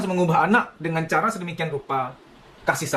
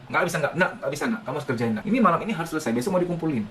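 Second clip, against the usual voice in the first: firm parent; faster than usual. Shown as a demonstration. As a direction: set the rule calmly but firmly. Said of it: "Itu, itu, itu tegas".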